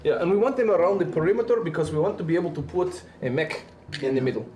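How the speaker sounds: a lightly put-on Russian accent with a different vowel set; Space Russian. Streamer keeps a light Russian accent on a donation request. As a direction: hold a jokey Russian accent while chatting. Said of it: "I'm doing Space Russian dialect".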